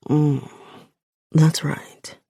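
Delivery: a touch of a low, purring man; low male voice. Acted. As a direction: murmur it like a man in control. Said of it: "he says low".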